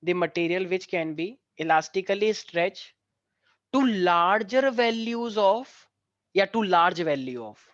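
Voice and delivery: each phrase spoken very slowly for students to copy; slow, clear classroom dictation. Shown as a demonstration. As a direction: dictate word by word with long pauses. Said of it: "लिखो सारे बच्चे".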